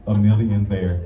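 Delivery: laid-back rapper. Retold or imitated. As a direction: toss it off like a lyric. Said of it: "was like".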